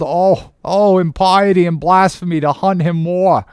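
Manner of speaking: high, loud impassioned protest; crying out. Acted. Starbuck begging his captain to stop the chase, crying out. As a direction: plead at full voice, building in outrage. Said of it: "cried Starbuck".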